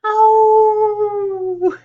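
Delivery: sudden high, loud gasp of surprise; surprised oh. Acted. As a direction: act startled for the kids. Sudden exclamation while reading.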